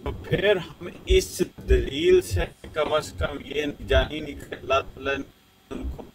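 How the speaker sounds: choppy, broken-up phone audio; bad connection. Real, not acted. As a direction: voice cutting out on the call. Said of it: "آپ کی آواز کٹ رہی ہے".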